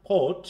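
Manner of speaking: thought opened with an audible puff of air; aspirated first consonant. Shown as a demonstration. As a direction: push breath out on the start of thought. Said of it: "we must aspire the".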